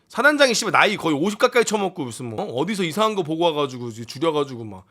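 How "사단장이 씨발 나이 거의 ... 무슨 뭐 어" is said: ordinary delivery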